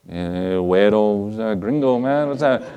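put-on joking Hispanic-accented aside; mock Hispanic accent. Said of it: "they don't talk like that".

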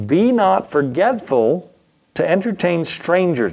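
measured pulpit recitation; scripture reading. Shown as a demonstration. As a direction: read it out like holy writ, slowly. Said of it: "Hebrews thirteen one".

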